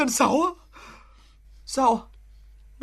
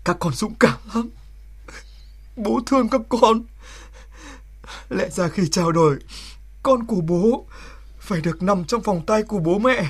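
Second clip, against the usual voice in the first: tender; 5 semitones lower than usual. Acted. Border soldier speaking tenderly to his newborn son. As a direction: speak gently, holding back feeling.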